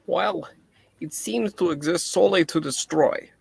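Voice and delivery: put-on light Russian accent scientist; a Russian doctor, lightly voiced. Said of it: "maybe my Russian accent will go too".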